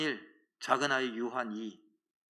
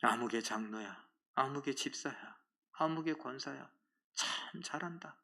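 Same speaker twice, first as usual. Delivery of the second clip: quiet sarcastic reproach; 10 dB quieter than usual. Acted. God sarcastically addressing church officers.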